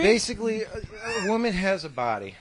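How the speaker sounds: winded, catching breath between words. Real, not acted. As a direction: talk while short of breath. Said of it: "I'm on a little out of breath here".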